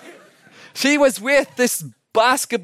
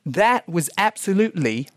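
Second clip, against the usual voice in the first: mock British accent. TV dance judge gives the verdict, in a mock British accent. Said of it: "in a British accent".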